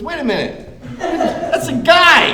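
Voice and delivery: slow comic double take; hammed-up Trump. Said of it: "He goes".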